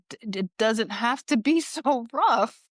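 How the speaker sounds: mock complaint breaking into a laugh; laughing protest. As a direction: stammer a retold protest through laughter. Retold protest at rough massage, laughing.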